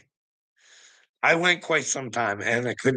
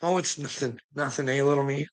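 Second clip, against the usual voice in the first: mocking mimicry; 4 dB quieter than usual. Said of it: "lying on people all the time".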